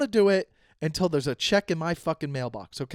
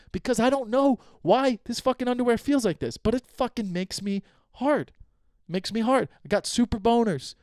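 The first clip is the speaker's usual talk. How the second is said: hammed-up aroused voice; 5 semitones higher than usual. Acted steamy answer.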